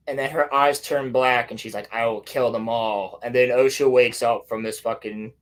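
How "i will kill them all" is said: slow, low retold threat; mock menace. Reviewer quotes the black-eyed girl, slow low mock threat. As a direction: intone it like a possessed child, understated. Voices possessed girl's threat.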